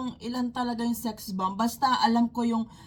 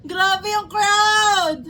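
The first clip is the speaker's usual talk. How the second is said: excited shout; 4 semitones higher, much slower than usual. Real, not acted. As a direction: let the awe stretch out. Overwhelmed by crowd reaction.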